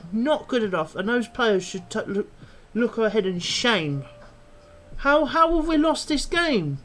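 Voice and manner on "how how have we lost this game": loud, high furious outburst; furious rant. Real, not acted. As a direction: let the anger explode, shouting. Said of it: "I'm absolutely furious by the way".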